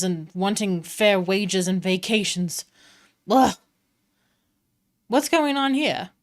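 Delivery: a hint of a fussy, put-upon noble; exasperated Mister Light. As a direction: sigh over the tedious gnomes. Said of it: "and he's like".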